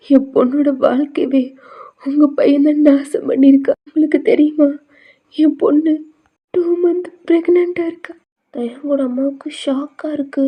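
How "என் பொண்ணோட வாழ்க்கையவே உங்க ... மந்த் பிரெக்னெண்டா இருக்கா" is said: louder and higher, furious reveal; raging accusation of their son; angry outburst. Acted. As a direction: climb up in pitch as you accuse. Mother reveals daughter's pregnancy angrily.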